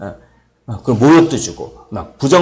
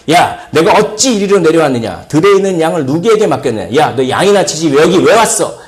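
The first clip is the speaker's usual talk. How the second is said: loud, quick mock telling-off; acted angry scolding; 3 semitones higher, 3 dB louder than usual. Eliab berating his youngest brother David for coming, acted angry scolding. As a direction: scold like an indignant big brother. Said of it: "엘리압이 다윗에게 노를 바라요".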